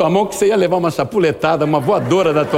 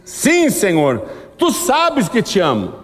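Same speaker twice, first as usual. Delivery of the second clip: Peter's earnest reply; 5 semitones higher, slower than usual. Acted.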